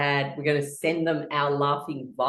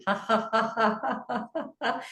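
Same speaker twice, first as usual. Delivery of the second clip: laughing sounds; 4 semitones higher, 3 dB quieter than usual. Shown as a demonstration. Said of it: "we're making laughing sounds".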